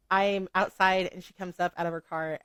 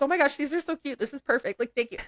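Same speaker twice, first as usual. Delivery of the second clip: much higher, gushing over a cute gift; retelling her own thrilled reaction, pitched up; delighted thanks; 8 semitones higher than usual. Retold or imitated. Thanking a friend for tiny stones, higher and gushing. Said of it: "I was like".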